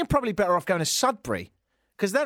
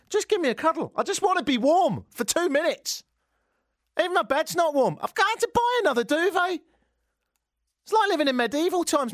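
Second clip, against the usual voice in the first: mock pleading; 12 semitones higher than usual. Pleading for warmth.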